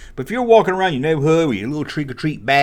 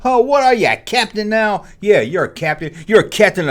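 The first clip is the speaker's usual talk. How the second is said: schoolkid taunt; 5 semitones higher, 3 dB louder than usual. Retold or imitated.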